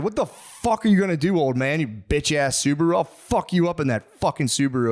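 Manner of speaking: hammed-up furious shout; road rage yell. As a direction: bark it at the old man in the Subaru. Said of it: "I said".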